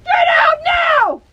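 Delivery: screamed high, loud and slow; furious shout. Real, not acted. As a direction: yell at him with full rage. Furious argument, ordering him out.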